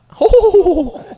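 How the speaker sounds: loud, high drawn-out "hoo"; high whoop. Real, not acted. Showing off a label-peeling trick, high whoop.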